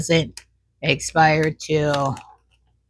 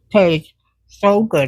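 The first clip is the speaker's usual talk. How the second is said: talking with mouth full; words round a bite of food; 3 dB louder, slower than usual. Real, not acted. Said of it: "I'm talking with my mouth full".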